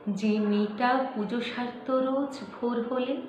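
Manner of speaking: measured, dramatic verse reading with pauses between lines; poem recitation. Acted. Reciting a poem about an acid-attacked girl to viewers, solemn poetry recitation. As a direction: recite it as a grave story-poem, slowing as the tragedy unfolds.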